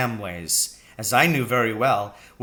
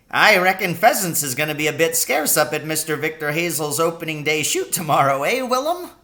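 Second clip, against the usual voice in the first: put-on lightly raised, gleeful old countryman's voice; old Charlie Kinch; 4 semitones higher, 3 dB louder than usual. Old cabbie teasing his poacher friend, lightly higher gleeful voice. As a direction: chuckle it out like a sly old cabbie.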